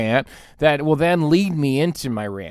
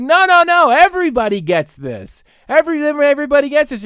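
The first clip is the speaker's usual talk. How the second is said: mock waiter; 9 semitones higher, 4 dB louder, faster than usual. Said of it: "they're like".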